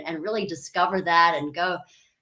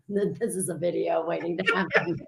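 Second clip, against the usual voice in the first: laughing retelling; 3 dB quieter than usual. Retold or imitated. Laughs while quoting her companions.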